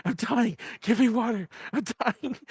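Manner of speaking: weak pleading croak for water; begging drunk. Retold or imitated. Drunk friend begging Nestor for water, pleading. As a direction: beg for water like you're dying.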